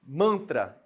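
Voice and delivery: "Mantra" said firmly with N-T and T-R clear; careful teacher "Mantra"; demo word. Shown as a demonstration. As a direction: present "Mantra" loud and clear. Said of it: "Olha só pra palavra mantra".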